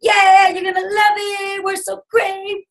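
mock over-the-top salesgirl; gushing hype. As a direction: overdo the hype.

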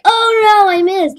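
high squeaky voice of a disappointed ragdoll; mock dismay. Gamer voicing his ragdoll player missing the ball, high mock dismay. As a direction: voice the little guy missing.

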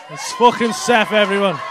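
booming slow call-out; shouted announcement. Real, not acted. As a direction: announce him to the crowd. Comic announces audience member.

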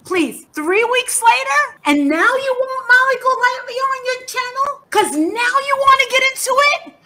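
rising outrage at her late interest; indignant. Real, not acted. Angry rant at fellow YouTuber.

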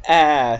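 "ah" said as the vowel in cat; "ah" as a stretched short A; short A sound. Shown as a demonstration. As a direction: draw out "ah" slowly like the A in cat. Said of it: "the one that sounds like cat".

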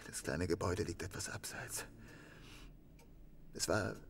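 low breathless whisper. Acted. Suspect whispering where the murder happened. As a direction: barely voice it, as if reliving it.

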